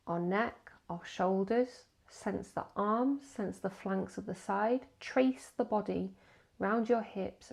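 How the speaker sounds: slow meditation guidance with pauses between body parts; measured, spaced-out meditation phrases; guided body scan. Acted. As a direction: guide them unhurriedly from one body part to the next.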